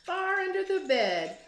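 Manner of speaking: put-on lively rhyming read-aloud for kids; story narration. A narrator's reading. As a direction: read it like a teacher to second graders, with bounce. Teacher reads picture book aloud.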